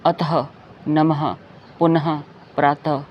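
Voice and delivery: "अतः, नमः, पुनः, प्रातः" with sounded final h; "पुनः" as punaha, ending breathed out; visarga endings. Shown as a demonstration. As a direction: say each apart, "नमः" as namaha. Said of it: "अह pronounce करते हैं".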